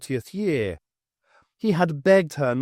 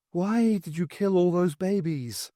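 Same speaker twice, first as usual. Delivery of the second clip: accusing dead wife; 5 semitones higher than usual. Acted. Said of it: "the voice was that of Morag".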